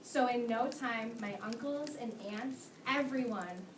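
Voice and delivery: put-on slow, sing-song read-aloud to children; lively picture-book reading for little kids; story reading. Teacher reads the story aloud.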